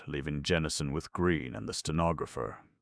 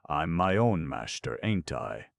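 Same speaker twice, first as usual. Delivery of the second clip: put-on drunk voice; 5 dB louder than usual. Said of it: "says with alcoholic accent".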